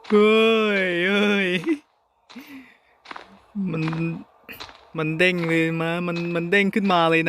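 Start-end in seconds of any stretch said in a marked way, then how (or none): 0.1-1.5 shaken cries. Real, not acted. After jump scare.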